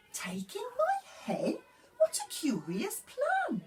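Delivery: put-on high, pleading old lady voice; a fretful little old lady begging for help. Old lady's reply.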